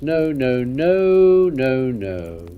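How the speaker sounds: a swooping, rising-and-falling refusal; emphatic dismissal. Acted. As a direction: wave the idea away theatrically. Lord dismisses practical use of curtains.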